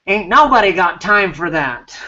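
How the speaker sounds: sly little weasel voice. Pretend. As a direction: squeak it out like a cheeky weasel. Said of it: "in your weasel voice".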